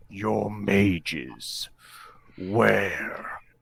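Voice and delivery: loud, growling, intimidating voice. Rolling to intimidate someone in the game, the player asks in a growling voice. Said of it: "in as much of a growling voice I can muster".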